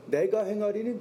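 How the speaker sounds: 내가 drawn out and given the weight; stress on 내가. Shown as a demonstration. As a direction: lean firmly on 내가 as the subject. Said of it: "주어가 자신이길".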